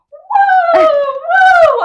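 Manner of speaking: loud, high delighted whoa; thrilled whoa. Retold or imitated. Brother enjoying plane turbulence, loud delighted whoa. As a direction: whoop like he's on a rollercoaster. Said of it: "he's going".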